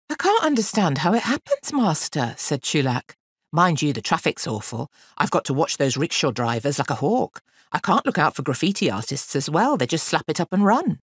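lightly voiced innocent boy, protesting; cheeky boy making excuses. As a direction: play the young helper talking his way out. Boy makes excuses to his master.

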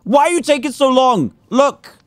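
high, coaxing voice to a tiny bee; sweet-talking the stubborn baby bee, high and coaxing; cooing pet talk. Acted.

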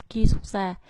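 ki xuất ra with ki unlowered, Vietnamese-style; Vietnamese-sounding Korean. Shown as a demonstration. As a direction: read ki xuất ra with a Vietnamese accent. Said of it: "thì rất là Việt Nam".

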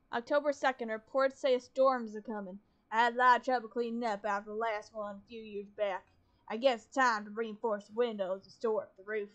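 steady reading-aloud voice; diary reading. Acted. Gamer reading a found diary aloud, steady. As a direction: read the journal entries evenly.

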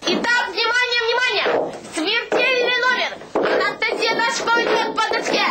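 circus announcer. Pretend. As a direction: announce the deadly stunt like a ringmaster. Announcing a circus-style stunt. (цирковой конферансье)

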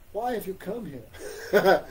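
slow, laughing mock question; Krishna teasing, laughing. Krishna teasing the ladies with a slow laugh. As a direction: tease them while chuckling. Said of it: "Krishna speaking like this".

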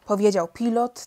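ordinary delivery, nothing marked

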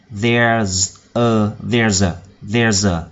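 slow, drilled "there's a" with the z carried into A; linked sounds. Shown as a demonstration. Teacher drilling the linking for a song, linked sounds. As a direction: repeat "there's a" as one joined word. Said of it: "chúng ta nối âm thành".

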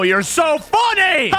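high, laughing, almost crying; laughing sarcastic. Real, not acted. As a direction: laugh through the words. Trolled, laughing cry.

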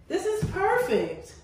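laughing through the words; giggly delight. Real, not acted. Laughing while lounging in the tub.

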